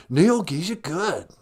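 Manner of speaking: lightly voiced dude trying out a word; dude echo. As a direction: echo it slowly with a big lilt. Dude echoes the new word.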